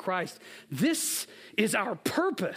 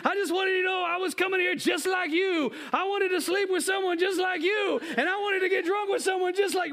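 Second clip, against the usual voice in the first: put-on Samoan accent; 11 semitones higher than usual. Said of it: "That's my Samoan accent".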